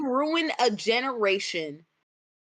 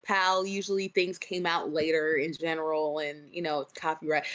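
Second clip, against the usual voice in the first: ordinary delivery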